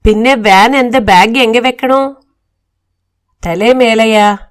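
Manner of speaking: a touch of mock anger in broken Tamil-Malayalam; flaring up at the driver. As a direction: snap back at the driver, lightly acted. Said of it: "driver మీద మండిపడ్డాడు Malayalam". (డ్రైవర్ మీద కొంచెం కోపంగా విరుచుకుపడటం)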